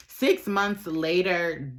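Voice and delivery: Six months later, drawn out slowly, word by word; slow it right down on Six months later; slow dramatic restatement. Shown as a demonstration. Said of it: "like, six months later".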